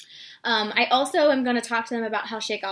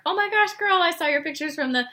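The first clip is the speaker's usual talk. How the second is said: bright, higher gushing message to a friend; friendly gush; 4 semitones higher than usual. Shown as a demonstration. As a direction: sound thrilled for her. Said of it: "Things like that are gonna get people to respond".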